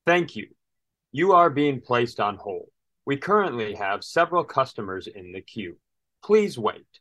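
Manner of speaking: flat automated hold message; robot voice. Retold or imitated. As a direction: recite it like a phone recording. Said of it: "a robot voice said".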